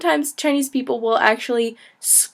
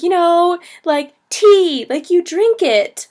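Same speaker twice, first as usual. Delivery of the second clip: eager explaining; 7 semitones higher, 4 dB louder, slower than usual. Retold or imitated. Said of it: "pantomiming in Chinese".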